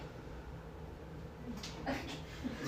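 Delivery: long, soft, voiceless laugh; breathy laugh. Real, not acted. Remembering the reunion with the girl, soft breathy laugh. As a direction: laugh almost without voice.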